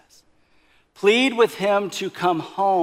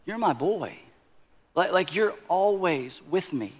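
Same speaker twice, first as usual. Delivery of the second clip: compassionate father. Acted. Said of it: "with as much compassion as he can muster".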